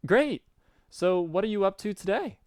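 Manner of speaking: very high, eager character voice; high, excited greeting in a put-on voice; Garden Gnostic. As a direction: put on a high-pitched chatty friend. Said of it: "put some effort in this voice".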